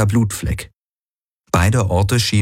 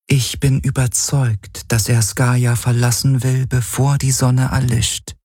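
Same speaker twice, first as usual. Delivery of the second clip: higher, cool and reserved; reluctant AI voice; 6 semitones higher than usual. A narrator's reading. Helix describes Valyr to Galen, higher and reluctant. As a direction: speak with slight reluctance, voice raised.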